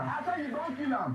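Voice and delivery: high-pitched, indignant accusation; insistent accusation. Acted. Passenger accuses the man of killing his brother, indignant.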